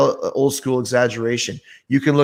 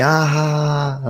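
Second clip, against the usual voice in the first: drawn-out jeering ha-ha, imitated; retold mocking laughter; mock howling laugh; 3 semitones higher, slower than usual. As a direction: imitate a crowd howling at you. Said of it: "everyone's howling at me".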